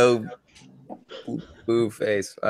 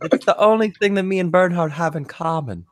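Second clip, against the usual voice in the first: higher stoner character; lightly voiced laid-back stoner; Shushar character voice; 5 semitones higher than usual. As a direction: keep the pothead voice up high. Continues in Shushar's voice.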